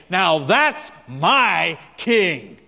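slow, drawn-out preacher's proclamation; a lightly imitated famous preacher's cadence; S M Lockridge. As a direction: lean on every word like an old-time preacher. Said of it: "in his inimitable way".

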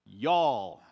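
y'all repeated low with a heavy Southern twang; Southern drawl on y'all. Shown as a demonstration. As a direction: lean into the Kentucky y'all. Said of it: "not in Kentucky".

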